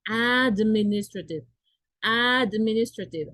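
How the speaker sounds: administrative said slowly, each syllable clear, starting on the vowel "ad"; slow pronunciation demo. Shown as a demonstration. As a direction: sound out administrative from its opening vowel. (administrative pronunciado despacio, marcando la vocal inicial)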